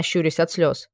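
ordinary delivery, nothing marked

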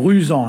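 RUSANT with a final nasal an; nasal ending variant. Shown as a demonstration. Adding a third regional form for listeners, "rusant" ending nasal. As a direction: end "rusant" on a nasal vowel, no n. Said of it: "différentes pour la, pour la prononciation".

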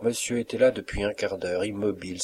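ordinary delivery

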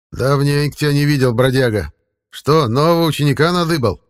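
lightly voiced old forest man; a hint of a folksy old man; creepy caretaker.

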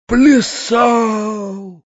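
high, drawn-out cry of horror; horrified cry. A narrator's reading. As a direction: cry out aghast, stretching the word. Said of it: "вскрикнул в ужасе дядя". (крик ужаса)

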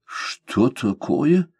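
slow, stunned outcry; startled exclamation. A narrator's reading. Lord hears he will be detained, startled cry. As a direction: blurt it out in disbelief. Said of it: "воскликнул лорд Джулиан".

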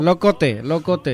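LOCOTE with a clear initial L; pronounced with L. Shown as a demonstration. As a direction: say "Locote" starting on an L, ending in -te. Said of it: "con L".

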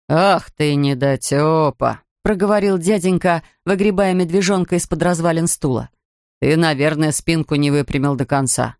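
lightly voiced grumpy beach attendant; gruff ticket man.

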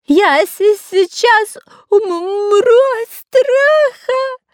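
high, slow sobbing panic; terrified crying. A narrator's reading. Spy panicking among crawling snakes, crying in terror. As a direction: stammer it out, crying with fear. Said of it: "надрывался Дырка".

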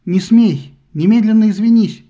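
mother ordering her son; commanding shout. A narrator's reading. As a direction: bark the command. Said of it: "приказала она".

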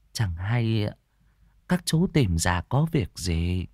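slow, gently subdued question; lightly voiced older woman. Older woman asks strangers their business, slow courteous voice. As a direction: ask courteously, drawing out the last words.

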